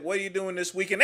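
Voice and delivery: fast, cracking, half-shouted; rushed mock question. Comic voicing a frantic stranger asking about weekend plans. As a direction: gabble it out in a panic.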